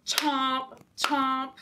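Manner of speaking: biting chomp chomp; tiger chomp. Shown as a demonstration. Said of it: "Can you do that?".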